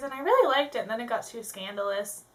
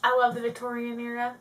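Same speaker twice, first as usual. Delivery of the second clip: put-on southern accent, drawn vowels; easygoing pretend southern US accent; 3 dB quieter than usual. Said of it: "continue with my southern accent".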